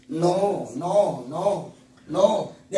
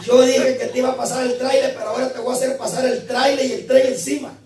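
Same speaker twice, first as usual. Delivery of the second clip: laughing; 5 semitones higher, 3 dB louder than usual. Retold or imitated. God's retort retold laughing.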